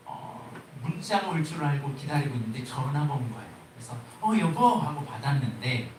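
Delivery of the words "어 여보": high, bright hello to her husband; sweet wife answering. Retold or imitated. Wife picking up her husband's call, high and eager. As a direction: answer the phone expecting a love note.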